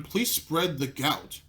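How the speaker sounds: slow, drawn-out mock appeal to the crowd; a very slow, sarcastic plea to ladies and gentlemen. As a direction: drag each word out like a sarcastic announcer.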